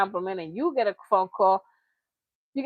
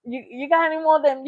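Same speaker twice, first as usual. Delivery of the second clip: quick fiend plea, a bit higher; imitating Dave Chappelle's crackhead again; 3 semitones higher, faster than usual. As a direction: beg fast like a twitchy fiend. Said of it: "in Dave Chappelle".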